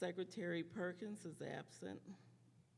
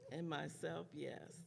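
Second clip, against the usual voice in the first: losing voice. Real, not acted. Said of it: "You have to excuse my voice, I'm losing it".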